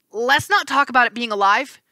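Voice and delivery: a scared satyr begging them to stop; mild frightened whimper. Acted. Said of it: "Grover whimpered".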